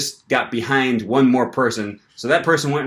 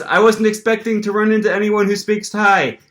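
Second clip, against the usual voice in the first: 1 excited quote; 10 semitones higher, 4 dB louder than usual. Retold or imitated. Quoting excited Thai employee.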